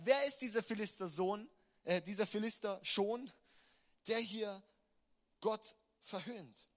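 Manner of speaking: young David challenging the mocking giant; defiant challenge. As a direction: call out the insult boldly. David defying Goliath, quoted.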